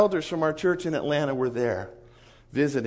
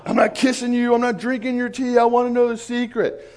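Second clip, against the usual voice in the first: high, loud, insistent refusal; mock a guest too impatient for greetings; imitated impatient sheikh; 8 semitones higher, 5 dB louder than usual. Sheikh arriving at the house for the secret, impatiently insistent. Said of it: "That's how he was when he came in".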